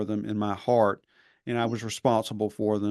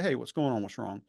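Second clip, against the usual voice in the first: gentle, quiet check-in with a crying student; soft, casual professor asking what's wrong; casual softer tone; 5 dB quieter than usual. Retold or imitated. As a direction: ease into it softly and kindly. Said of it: "speak to them in a casual, softer tone".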